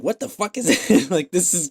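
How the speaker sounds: high-pitched, incredulous laugh through the words; laughing disbelief. Real, not acted. Host reacting to the throbbing lightsaber line, laughing disbelief. Incredulous at show's clumsy innuendo.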